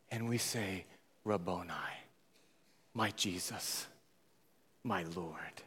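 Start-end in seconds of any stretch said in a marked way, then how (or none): 1.2-5.6 soft, lower, reverent; the faithful murmuring to their Lord, soft; hushed devotion. Retold or imitated. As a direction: say it as a quiet prayer. Congregation's devotion voiced.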